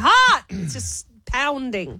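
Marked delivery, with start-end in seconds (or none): 0.0-0.4 worked-up cry, rising on the repeat; shouting. Real, not acted. Co-host after a tense quiz round, shouting. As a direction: get louder and higher, overwhelmed. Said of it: "You're shouting a lot".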